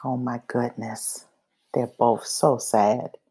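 soft, sad aside to the listeners; oh my goodness, so sad; sympathetic sigh. Real, not acted. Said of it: "Look how sad they both are".

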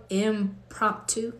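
"Impromptu?" slowly sounded out, softly questioning; careful, unsure pronunciation. Real, not acted. Checking with viewers how to say "Impromptu?", slow and unsure. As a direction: try out "Impromptu?" syllable by syllable. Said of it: "Did I say it right?".

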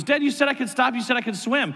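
mock a kid protesting a broken promise; retold frustrated whine to Dad; frustrated child. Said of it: "he started to get frustrated with me".

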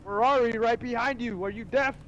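exasperated. Real, not acted. Repeating warning, exasperated.

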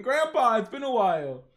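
milder, high-starting call; exuberant greeting repeated. Retold or imitated. Reader retells grandson's greeting to grandpa, toned-down holler. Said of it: "We see Jin Mori just laughing".

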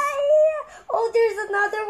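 panicky, near crying; panicked. Real, not acted. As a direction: cry out in alarm. Panicking about mobs.

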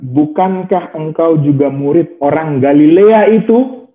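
slow, drawn-out questioning. Shown as a demonstration. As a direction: stretch the question slowly, rising at the end. (pertanyaan lambat dan panjang)

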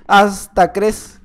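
Hasta crees stretched very slowly; slow teasing Hasta crees; slow drawn-out. Shown as a demonstration. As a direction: draw out Hasta crees mockingly. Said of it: "hasta crees tú".

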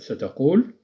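normal talking voice

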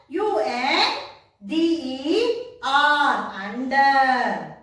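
"U N D E R" spelled slowly letter by letter, then "under"; spelling out under. Shown as a demonstration. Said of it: "So write the spelling there".

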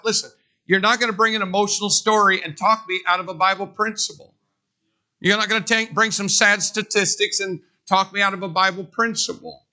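fast, driving pulpit delivery; preaching at full force. Acted. Preacher warning his congregation, driving and fast. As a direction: hammer it home to the church.

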